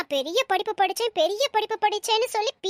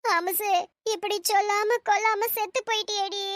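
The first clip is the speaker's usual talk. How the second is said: mock lament; 3 dB quieter than usual. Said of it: "ஒப்பாரி வச்சுக்கிட்டு இருக்கேன்".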